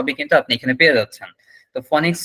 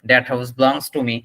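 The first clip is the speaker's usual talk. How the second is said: very slow, each word spelled out for learners; slow demo sentence; 4 semitones lower, much slower than usual. Shown as a demonstration. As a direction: read it out slowly like a teacher. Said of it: "এই যে দেখুন".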